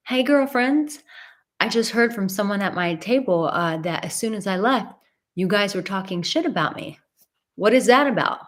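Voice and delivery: fake-friendly then confronting; sassy confrontation. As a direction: sweetly call them out, then demand an answer. Retold confronting girls at table.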